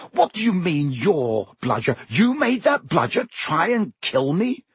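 high, indignant demand; rising anger. Acted. Harry confronting the elf about the bludger, angry. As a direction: accuse the elf, anger climbing. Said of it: "anger rising once more".

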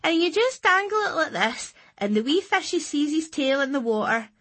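high sing-song teaching lilt. A narrator's reading. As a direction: lilt it like a little expert. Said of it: "in a sing-song voice".

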